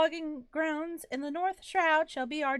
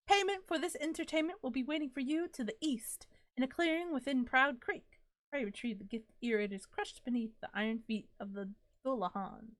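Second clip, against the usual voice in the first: grand spirit voice; 4 dB quieter than usual. Acted. Reading the disembodied spirit's lines to the player, courtly. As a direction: read it like a polite, flowery ghost. Reads game spirit's dialogue.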